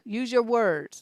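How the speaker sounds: stern firm parent command. Retold or imitated. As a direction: tell a toddler off firmly. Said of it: "That's what I would tell her".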